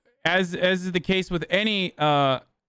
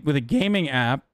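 voice cracking; 2 semitones lower than usual. Real, not acted. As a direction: voice cracks on gaming. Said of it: "Why did my voice crack?".

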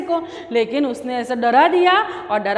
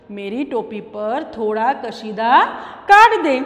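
mouse's request; 3 semitones lower than usual. Shown as a demonstration. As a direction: ask gently, then punch the end. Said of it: "repeats the request".

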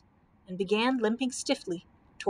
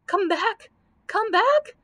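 high, loud panicked cry; screaming; 11 semitones higher, 7 dB louder, slower than usual. A narrator's reading. Camel calls after the vanished knight, screaming. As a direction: cry out desperately, rising in pitch. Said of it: "screamed the Comfortable Camel".

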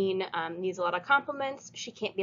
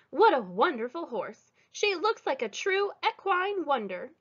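put-on sweet old lady voice; 6 semitones higher than usual. Mrs Watson admires the horse.

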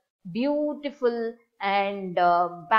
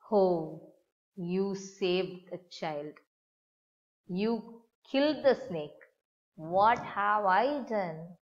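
crying out; slower than usual. Acted. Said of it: "she cried".

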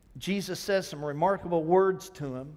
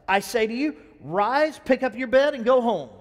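commanding; 3 semitones higher, 5 dB louder than usual. Acted. Jesus commanding the paralytic.

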